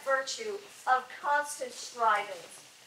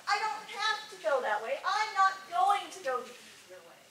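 mock stubborn refusal, pitched up; 5 semitones higher than usual. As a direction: act out someone digging in their heels. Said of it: "being stubborn is not".

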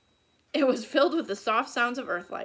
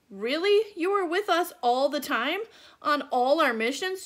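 surprised; 4 semitones higher, 5 dB louder than usual. Acted. Jack stunned by Morgan's secret.

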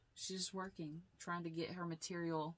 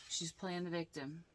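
ordinary talk

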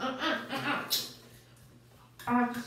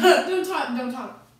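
pleading through laughter; cracking up, begging her stop; laughing; 10 dB louder, slower than usual. Real, not acted. Laughing at mom's joke.

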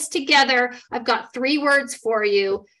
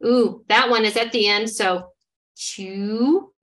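read by parts. Shown as a demonstration. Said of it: "Here we go".

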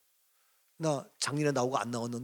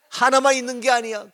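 louder and higher, punching 하나만; stressed 하나만 said loud and high; emphatic; 7 semitones higher, 9 dB louder than usual. Acted. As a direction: hit 하나만 hard, raised voice. Preacher repeats point emphatically.

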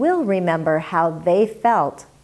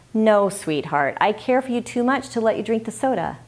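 loving, sincere. Shown as a demonstration. Mother lovingly telling her child no to Coke, tender. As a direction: tell your child gently that you care. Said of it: "So try this and mean it".

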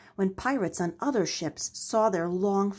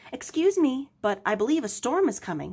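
higher, quick polite warning; polite Henry; 4 semitones higher than usual. Acted. Henry politely warns Jean of the storm, quick. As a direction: politely interrupt a busy pirate.

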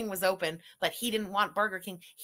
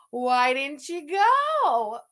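whispered question; 3 semitones higher, 6 dB louder, much slower than usual. Real, not acted. Teasing question to streamer.

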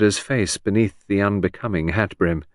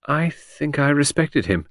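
slow, higher, mildly wondering; surprised at own words; 6 semitones higher than usual. A narrator's reading. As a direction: discover it as you say it, slowly. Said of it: "rather surprised at her own words".

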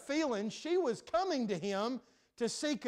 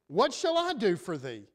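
blunt, cold and a touch louder; curt dismissive question; crass and cold; 3 semitones lower, 4 dB louder than usual. Acted. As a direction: brush her off coldly. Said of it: "responds what seems like crassly and coldly".

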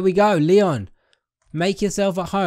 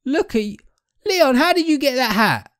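surprised; 9 semitones higher, 4 dB louder than usual. Real, not acted. Amazed at character's new hat.

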